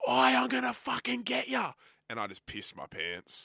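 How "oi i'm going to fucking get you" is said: put-on very high, shrill scream. Retelling a prank on a hotel door, imitating a man screaming. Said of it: "he screamed".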